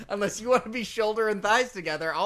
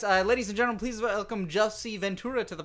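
host announcer voice; 4 semitones higher, 4 dB louder than usual. Pretend. Mock welcoming guest on show.

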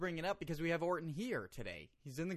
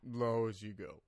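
low voice; 4 semitones lower than usual. Shown as a demonstration. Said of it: "Do it right now".

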